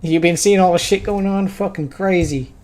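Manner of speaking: a rough, uncertain go at an Aussie bro; attempted Aussie guy. Game visitor asks what's going on, attempted Aussie voice. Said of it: "I don't know how to do an Aussie accent".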